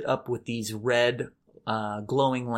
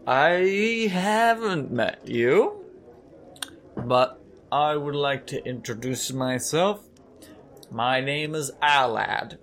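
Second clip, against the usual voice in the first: tavern man voice. Acted.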